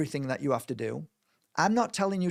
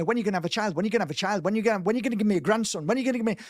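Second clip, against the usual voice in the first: nagging mum; 5 semitones higher, much faster than usual. Retold or imitated. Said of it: "My mum's always having a go at me".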